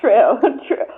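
laughing through a yes; giggling out the word true. Real, not acted. Laughing through her answers.

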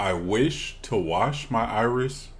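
slow, deliberate twister; slow careful attempt. Shown as a demonstration. Cohost trying the twister slowly, carefully. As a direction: pick each word out slowly. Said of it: "that Irish will get you right there".

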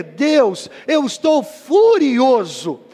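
prayer building, then hushed "Me ajude"; anguished prayer. Retold or imitated. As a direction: pour out anger to God, then beg. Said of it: "É você dizer".

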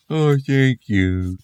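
high, slow, drawn-out thanks; daddy zombie. Acted. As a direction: stretch the grateful oh out long. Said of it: "said the daddy zombie".

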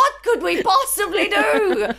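high, drawn-out mock despair with laughter; mock helplessness. Mocking everyone sitting around clueless, mock-helpless wail. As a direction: wail it slowly, sending up the helpless.

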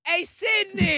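loud call with SYDNEY stressed. Real, not acted. Calling out to Sydney, loud and bright. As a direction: call across the room, loud.

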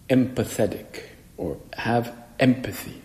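usual speaking voice

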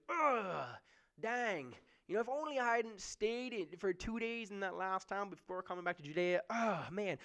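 hammed-up grumble at yourself; mock regretful groan. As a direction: moan about the delay like a sulky traveller. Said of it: "Nowhere does it say that Jesus goes".

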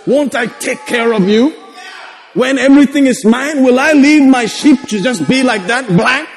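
voicing God. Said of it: "And he said".

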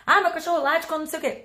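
lightly voiced owner asking a question; imitating an asking owner. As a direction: mimic a pet owner asking about her cat. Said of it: "as pessoas me perguntam direto".

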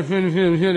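wordless imitated grumble; grumbling noise. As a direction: mumble like a grumbling crowd. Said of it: "I love it when people grumble".

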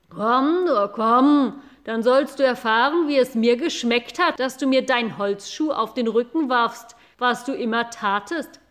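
loud vengeful cow voice; a cow settling an old score; angry cow. Acted. Cow threatens revenge for the clog, loud angry voice. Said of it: "sagte Stern".

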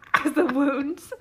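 breathy disgusted whisper, slow; grossed-out whisper. Real, not acted. Grossed out by wound pictures.

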